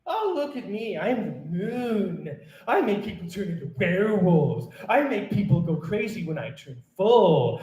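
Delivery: sing-song taunt as the boastful moon; mocking imitation. Poet apes the moon bragging about its powers, mocking imitation. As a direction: mimic a show-off to ridicule it. Mocks the moon's boasting in poem.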